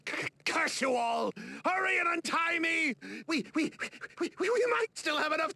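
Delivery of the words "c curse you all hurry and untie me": angry shout. Acted. Tied up, cursing captors.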